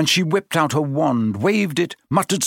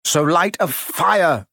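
higher, slow strangled plea; choking; 5 semitones higher, slower than usual. A narrator's reading. Harry to Hermione while strangled, choking. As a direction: force it out as if choked. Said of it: "Harry choked".

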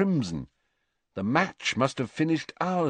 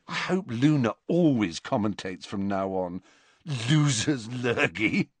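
shaking with laughter. Acted. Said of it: "his voice now shaking with laughter".

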